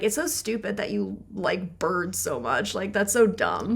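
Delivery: a dismissive partner mocking a bird lover, quietly scornful; mock harsh. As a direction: sneer at the partner's love of birds. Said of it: "being harsh".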